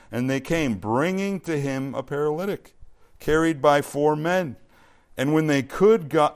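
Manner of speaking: loud, measured Bible reading; scripture reading. Acted. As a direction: read the passage out to a congregation. Reads scripture aloud to congregation.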